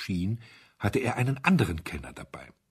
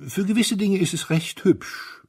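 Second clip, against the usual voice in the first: high, whispered and light; airy whispered aside; 12 semitones higher, 4 dB louder than usual. Acted. The Duke of Chester lightly defending the café in a high whisper. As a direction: breathe the little compliment.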